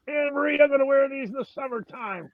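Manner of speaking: Hillbilly voice. Retold or imitated. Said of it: "doing the Hillbilly voice".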